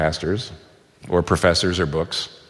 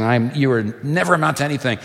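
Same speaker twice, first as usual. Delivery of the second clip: inner accusing voice; 5 semitones higher than usual. Retold or imitated. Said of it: "when I hear that voice saying".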